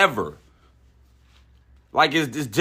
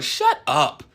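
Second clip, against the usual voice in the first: normal talking voice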